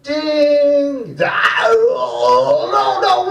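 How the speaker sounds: wailing ding dong; hammed-up anguish; mock crying shout. Kids get it wrong again in October.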